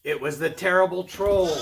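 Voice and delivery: lively, projected read-aloud voice; animated storyteller; storybook narration. A narrator's reading. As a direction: read it like a picture book to children. Reads a tale to children.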